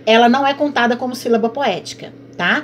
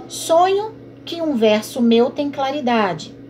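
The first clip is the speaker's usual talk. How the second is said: slow, measured verse reading; poem reading; slower than usual. Acted. Teacher reading the sonnet line to the class, slowly.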